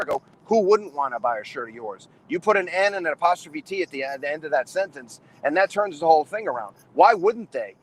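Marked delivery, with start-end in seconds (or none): 0.5-2.1 lower-pitched reassuring retort, not actually whispered; confiding reversal. Retold or imitated. Wrestler confiding in a young wrestler's ear, lower, encouraging. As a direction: drop the pitch and turn the put-down around. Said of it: "I whisper in his ear".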